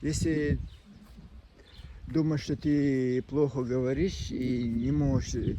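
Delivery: usual speaking voice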